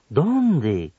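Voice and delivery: "¿Dónde?" full and falling; exclamation. Shown as a demonstration. Radio teacher demonstrating admiración, exclaiming. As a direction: exclaim where. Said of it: "en preguntas o admiración".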